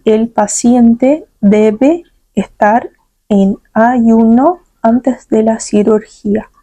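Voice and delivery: slow, careful reading for repetition; slow model sentence. Shown as a demonstration. Teacher to Brazilian students, reads slowly and clearly. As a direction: read it slowly so students repeat. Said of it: "Quero que vocês repitam".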